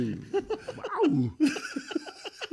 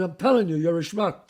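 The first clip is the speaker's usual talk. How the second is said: Matthau building up; 6 semitones higher, 6 dB louder than usual. Retold or imitated. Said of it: "He goes".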